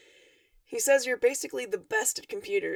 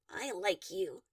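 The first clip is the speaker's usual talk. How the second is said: snickering; 6 semitones lower, 6 dB quieter, slower than usual. A narrator's reading. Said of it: "you snicker".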